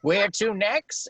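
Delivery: high, loud, bright question; eager question. A narrator's reading. Scrooge asks eagerly.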